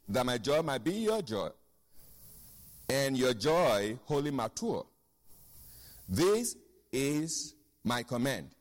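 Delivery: measured, fuller-voiced reading of scripture. Preacher reading scripture to church, measured and full. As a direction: read the verses to the congregation, weighty and steady. Reads scripture in Message translation.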